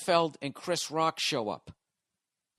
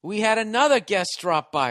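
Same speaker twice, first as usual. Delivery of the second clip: higher, louder host teasing one more guest; teasing emcee; 7 semitones higher, 6 dB louder than usual. Retold or imitated. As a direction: tease the crowd with a surprise. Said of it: "And then he goes".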